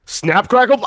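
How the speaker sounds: villain voice. Shown as a demonstration. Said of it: "I sound like a villain".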